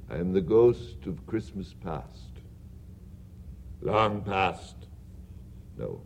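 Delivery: a hushed, low spirit voice; low, quiet ghost. Acted. Ghost of Christmas past telling Scrooge what he will see, in a low hush. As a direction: speak low and soft as a spectre.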